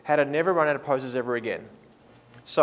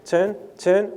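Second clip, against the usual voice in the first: calling out; 4 semitones higher, much slower than usual. Shown as a demonstration. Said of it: "press the pause button and say".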